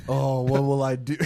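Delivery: hammed-up fake worry, with a laugh; mock despair. Joking about being fired from the podcast, mock despair. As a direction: play fake distress, laughing. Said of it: "Oh, no".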